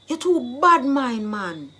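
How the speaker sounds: drawn-out patois reproach; accusing, jealousy charge. Shown as a demonstration. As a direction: stretch out the charge, then drop off. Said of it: "you are jealous of me".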